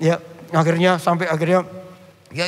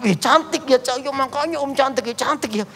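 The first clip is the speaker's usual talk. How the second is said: teasing; 7 semitones higher than usual. Retold or imitated. Pastor teases about the photo.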